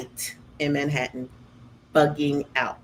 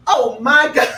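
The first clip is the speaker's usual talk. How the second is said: high louder thrill; excited gasp; 7 semitones higher, 7 dB louder than usual. Retold or imitated. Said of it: "I was like".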